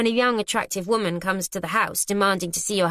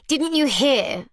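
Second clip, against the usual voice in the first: condescending; 7 semitones higher, 4 dB louder, slower than usual. Acted. Arabella talking down.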